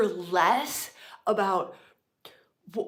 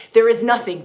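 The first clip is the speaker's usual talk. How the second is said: emphatic declaration; 3 semitones higher, 13 dB louder than usual. Real, not acted.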